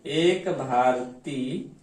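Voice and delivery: एक भारती stretched very slowly, pitch rising on एक; slow repetition. Shown as a demonstration. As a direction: repeat एक भारती slowly so students catch it. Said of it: "repeated slower". (एक भारती को बहुत धीरे दोहराएँ)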